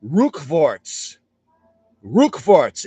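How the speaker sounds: Rückwärts said with a rolled German R and a clipped ending; careful German Rückwärts; German word Rückwärts. Shown as a demonstration. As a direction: spell out Rückwärts the German way, RUCK-verts. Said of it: "The R actually stands for".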